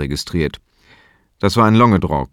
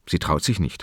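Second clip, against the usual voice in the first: leiser Gedanke; 4 semitones lower, 8 dB quieter than usual. Acted. Gedachter Satz, innere Stimme.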